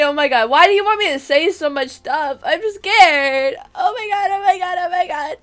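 hammed-up fearful babble, fast; mock panicked oh my god; mock scared. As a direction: play-act being scared on request.

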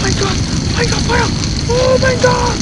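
over-the-top squealed panic; mock panic scream. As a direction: shriek like the house is burning down. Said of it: "schrei mal ein bisschen Feuer!".

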